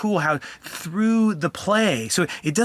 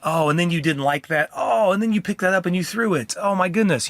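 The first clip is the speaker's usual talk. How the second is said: put-on higher, animated sympathy for a child; empathetic parent voice; 4 semitones higher than usual. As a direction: narrate the child's actions with caring surprise. Dad voicing empathy to child.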